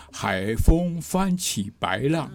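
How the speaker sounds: 海风翻起白浪 said slowly, each tone laid out; slow, deliberate reading of the lyric's tones; tonal example. Shown as a demonstration. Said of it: "比方说我们刚刚举的这个例子啊".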